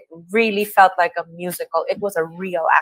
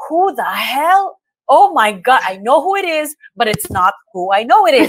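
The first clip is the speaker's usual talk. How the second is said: higher-pitched retold disbelief; astonished reaction; 4 semitones higher than usual. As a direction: act out your baffled reaction. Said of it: "I'm like".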